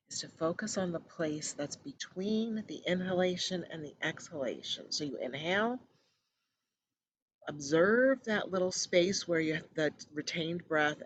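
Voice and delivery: measured guiding voice with long pauses; guided meditation. Acted. Host settling listeners into breath focus, calm guided meditation. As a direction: ease them gently into stillness.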